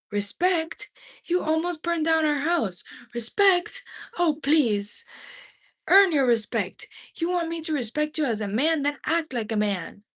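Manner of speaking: mock the word Respect, push back hard; furious mother. A narrator's reading. Mother shouting at husband.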